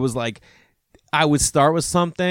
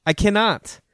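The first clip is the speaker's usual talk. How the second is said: panicked dad; 8 semitones higher, much slower than usual. Retold or imitated. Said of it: "I'm like".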